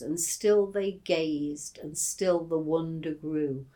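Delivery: gently recited verse, voice dropping at the end; reciting Goldsmith. Retold or imitated. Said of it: "and it goes".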